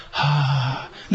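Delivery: easy open "haa" on the out-breath; just let the air out freely; relaxed exhale. Shown as a demonstration. Teacher's right way to breathe out, relaxed. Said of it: "せーの".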